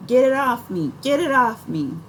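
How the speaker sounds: high panicked shriek, loud; screaming. A narrator's reading. Stung aunt screaming at the kids, panicked shriek. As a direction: scream it while clawing at your back. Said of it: "smacking her back and screaming".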